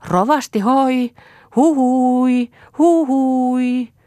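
high, loud call across the fields, drawn out. A narrator's reading. Kaisa calling out loud after the pastor. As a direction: shout far for the pastor. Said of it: "repäsi päähuivinsa päästään ja huusi".

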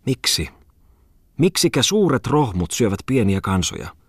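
high, whiny exclamation; whining voice. A narrator's reading. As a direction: whine the question in protest. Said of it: "huudahti Muttinen inisevällä äänellä". (inisevällä äänellä)

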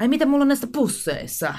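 high, mock-puzzled question; mock wonder. Podcaster retelling her own thought, mock-puzzled and high. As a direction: play up the surprise about the bags. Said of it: "Sit mä ajattelin".

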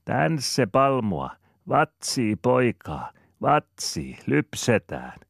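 high, slow calling to the cows; little girl hollering happily over the fence; little Rebekka calling to the cows with joy; joyful shouting child. Acted. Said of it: "voimakkaalla ja riemuitsevalla äänellä".

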